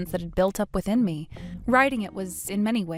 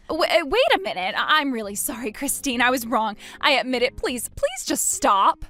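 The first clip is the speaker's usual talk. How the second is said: pleading ex-husband; 4 semitones higher than usual. Acted. Ex begs Christine to stop.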